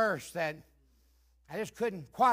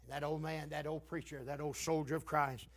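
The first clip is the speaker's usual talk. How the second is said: low, soft reverent storytelling; subdued testimony; 4 semitones lower, 8 dB quieter than usual. Real, not acted. Preacher recalling an old saint's passing, subdued testimony. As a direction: recount it quietly and solemnly, in a lowered voice.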